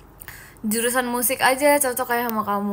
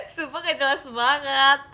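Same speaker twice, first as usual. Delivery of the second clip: laughing; 2 semitones higher than usual. Real, not acted. Still laughing at the comment.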